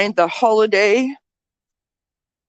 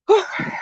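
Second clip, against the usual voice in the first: heavy sigh; 12 semitones higher than usual. Real, not acted. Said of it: "I'm out of breath".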